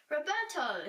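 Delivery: jester's hammed-up Italian accent. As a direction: call out the name in a comic Italian accent. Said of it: "he cried in an Italian accent".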